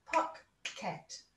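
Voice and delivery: "pocket" slowly split as pock, ket; two syllables. Shown as a demonstration. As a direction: clap out "pocket" as two separate beats. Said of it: "And again".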